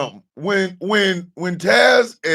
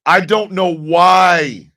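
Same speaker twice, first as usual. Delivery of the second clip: slow drawn out; 4 dB louder, much slower than usual. Shown as a demonstration.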